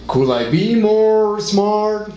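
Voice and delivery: milk every word sarcastically and land the weight on "smart"; Chandler's sarcastic delivery, drawn out; Chandler's stress pattern. Retold or imitated. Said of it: "su forma de hablar que hasta lo imitaban".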